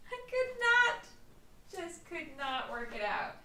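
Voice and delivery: laughing through the words, stretched out; real laughter. Real, not acted. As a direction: giggle helplessly at your own mistake. Laughing at own failure.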